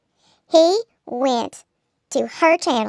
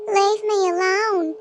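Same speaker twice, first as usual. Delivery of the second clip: mock plea; 6 semitones higher, slower than usual. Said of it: "he pleaded".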